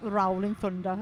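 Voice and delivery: half-successful low mimicry of "Rolling Thunder"; attempted copied pronunciation. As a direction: have a go at copying a showy "Rolling Thunder". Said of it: "I can't manage it".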